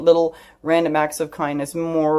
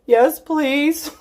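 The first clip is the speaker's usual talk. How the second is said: very high, squeaky mock-crying voice; hammed-up weepy acceptance; imitated tearful plea; 11 semitones higher, 3 dB louder than usual. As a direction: act out squeaking a plea through sobs. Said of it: "clearly I was bawling".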